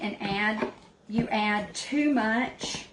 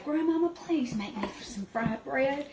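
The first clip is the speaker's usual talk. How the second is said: mild retold plea, higher pitched; begging grandmother; 5 semitones higher than usual. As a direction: imitate a grandchild begging for a treat. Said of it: "I would beg her".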